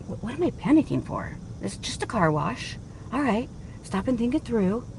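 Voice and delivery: quiet inner voice, reenacted; retold self-talk. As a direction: murmur to yourself as if regaining control. Retold calming talk to herself.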